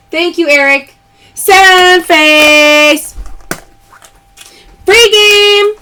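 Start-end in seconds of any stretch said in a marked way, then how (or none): 1.3-3.1 louder, drawn-out call; playful loud callout; loud catchphrase call. Real, not acted. Live sale callout. 4.9-5.7 high, loud cheer of free game; loud happy announcement; excited callout. Real, not acted. Live sale callout.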